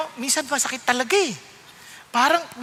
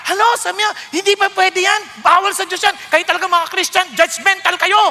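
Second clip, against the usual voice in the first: mock resentful; 6 semitones higher, 4 dB louder than usual. Mimicking a resentful listener.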